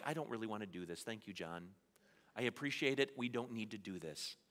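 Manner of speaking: introvert grumble. Retold or imitated. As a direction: mumble it like a shy person. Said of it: "introverts and you were like".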